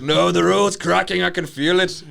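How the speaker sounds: high, loud mock panic; alarmed trucker. Trucker warning officer of cracking road, mock alarm.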